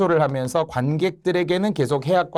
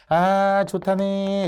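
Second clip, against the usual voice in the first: high, drawn-out pleased sigh; acted contented relief; relieved delight; 7 semitones higher, much slower than usual. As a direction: play the nobleman happily taken in. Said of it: "양반의 안심으로 춤을 추면서".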